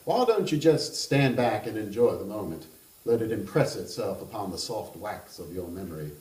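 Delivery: put-on a charming Kentucky gentleman teasing the table, Kentucky accent; playful Southern Kentucky voice, loud start. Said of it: "I'm going to attempt that kind of accent".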